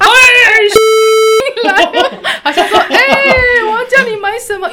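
loud high calling voice. Retold or imitated. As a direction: shout across the room to the husband. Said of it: "又喊的".

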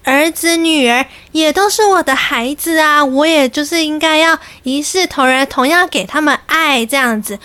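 serene nun mother. Retold or imitated. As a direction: answer graciously like a devout nun. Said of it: "她就说".

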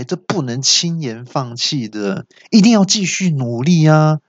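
put-on sly demon lecturing a little girl; villain voice. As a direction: preach at the kid like a smug ogre. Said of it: "那恶怪就说".

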